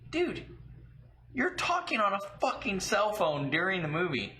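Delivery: high, incredulous retelling; indignant disbelief. Retold or imitated. Moviegoer retelling his answer to an angry husband, indignant. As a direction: protest as if he can't believe it.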